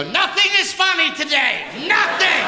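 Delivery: high, slow mock wife voice; a hammed-up wife declaring no fun today; stern wife. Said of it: "my wife will get up some days and go".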